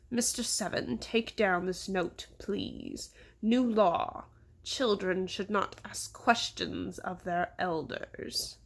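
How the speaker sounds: slow, deliberate dictation; stern mayor. Acted. Mayor dictating new law to assistant, sternly. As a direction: lay down the law word by word.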